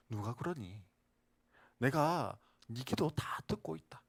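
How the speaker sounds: put-on calm a child who feels ignored; gentle God voice. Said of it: "그때 하나님이 말씀하시는 거예요".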